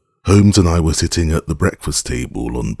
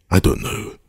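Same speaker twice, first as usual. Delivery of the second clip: slow; 3 semitones higher than usual. A narrator's reading. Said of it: "I answered slowly".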